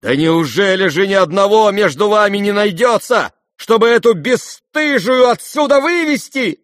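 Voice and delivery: high, loud, trembling shout; furious outcry. A narrator's reading. Varya demanding someone throw the guest out, furious. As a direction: cry out shaking with rage. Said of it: "вскрикнула вдруг вся трепеща от гнева".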